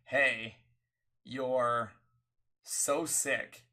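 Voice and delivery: halting, emphatic words with long pauses; imitated doctor. Doctor telling a patient the diagnosis, imitated emphatically. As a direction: quote a doctor breaking news piece by piece. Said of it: "they were like".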